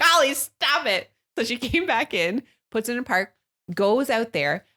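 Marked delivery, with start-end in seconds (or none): 0.0-1.1 retold alarmed shout. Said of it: "We were like".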